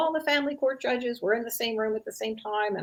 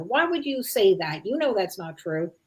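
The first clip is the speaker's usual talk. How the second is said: mock defensive anger. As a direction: play the defensive parent snapping back. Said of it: "responds with anger or frustration".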